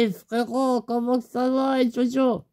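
high, bouncy buddy voice; mock high-pitched pal greeting; Roro's voice. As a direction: pitch it way up like a hyped friend. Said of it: "il me fait".

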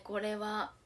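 usual speaking voice

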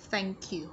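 "thank you" with the words joined; linked sounds. Shown as a demonstration. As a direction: run "thank" straight into "you". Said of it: "đồng thời chúng ta nối âm".

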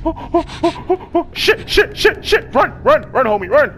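high frantic yelps of panic; real panic, high and breathless; panicked. Real, not acted. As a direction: panic as it chases you. Chased by a monster in game.

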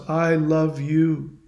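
slow, drawn-out echo; lingering, understated reply; Echo repeating. Retold or imitated. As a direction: repeat the last words back slowly, without force. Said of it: "To which she responds".

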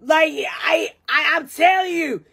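put-on drunk girl voice. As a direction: gush like a tipsy friend. Drunk girl advice in bathroom.

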